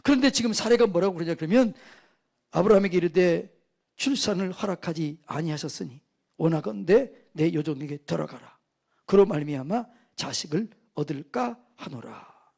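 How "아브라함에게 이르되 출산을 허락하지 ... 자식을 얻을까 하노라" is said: measured verse reading, settling lower; scripture reading. Real, not acted. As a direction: recite the verse deliberately. Reads scripture aloud to congregation.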